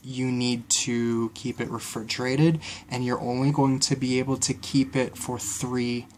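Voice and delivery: raspy, croaky sea witch voice. Real, not acted. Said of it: "I sound like a sea witch right now".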